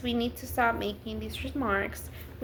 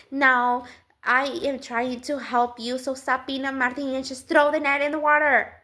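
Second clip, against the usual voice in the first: nagging Jesus parody; 5 dB louder than usual. Pretend. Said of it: "Did he talk like that?".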